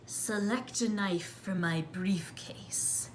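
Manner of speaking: hushed, slow whisper of the knife salesman; slow whispered sales pitch; whispered salesman line. Retold or imitated. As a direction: breathe it like a secret pitch. Salesman voiced in story.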